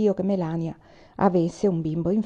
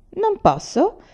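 mocking, much higher sneer; 11 semitones higher, much slower than usual. A narrator's reading. Young soldier mocking the woman's demand, high sneer. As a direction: jeer the question back at her. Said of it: "sogghignò il piccolo soldato".

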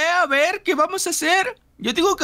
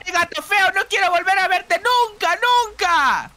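higher-pitched indignant scolding; indignant banishing; 3 semitones higher than usual. Pretend. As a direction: tell off the villain cat in play. Banishing the cat. (regañando indignada, con voz aguda)

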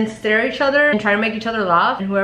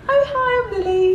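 put-on British accent; lightly done British accent; 11 semitones higher than usual. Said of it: "We just became British".

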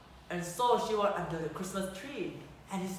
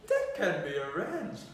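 sneered; 4 dB louder than usual. Acted. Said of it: "the Mouse King sneered".

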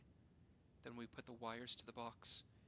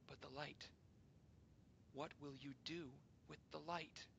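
softer, anxious pleading question; soft plea; 3 semitones higher, 5 dB quieter than usual. Acted. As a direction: ask gently, afraid for the light. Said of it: "we pleaded".

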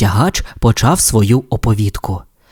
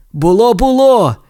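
insisting; 11 semitones higher than usual. Acted. Tow truck insists it happened. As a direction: insist stubbornly. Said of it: "наполягав Сирник".

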